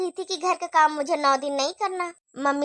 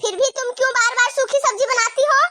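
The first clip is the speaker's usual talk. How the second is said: scolding; 5 semitones higher than usual. Acted. Saas scolds bahu over food.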